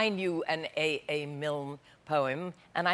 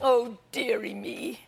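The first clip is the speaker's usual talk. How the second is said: mild lament; 3 semitones higher, slower than usual. Acted. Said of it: "And then he said".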